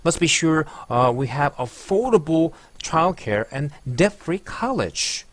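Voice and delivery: very slow, affordable leaned on; slow teacher demo; exaggerated stress. Shown as a demonstration. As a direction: overdo the stressed words. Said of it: "과장하듯 발음을".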